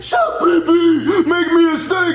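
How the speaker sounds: a lightly voiced, hammed-up Bowser demanding steak; mock the boss, barely changing the voice; a hint of a bossy customer, half-hearted mockery; mocking imitation of Bowser. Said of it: "Your imitations are so horrible".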